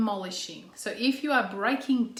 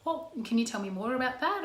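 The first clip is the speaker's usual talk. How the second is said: calm, curious questioning voice; softly interested, inviting more; 3 semitones higher, 3 dB quieter than usual. Shown as a demonstration. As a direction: show genuine interest, gently. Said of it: "That's a calm tone, but an interested tone".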